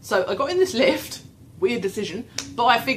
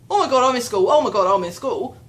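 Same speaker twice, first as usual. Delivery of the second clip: rapid mock-panic, louder at the start; freaking out; 6 dB louder, faster than usual. Brain panicking on finding itself in a school, mock freak-out. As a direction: act out a mild inner freak-out. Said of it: "my brain starts freaking out".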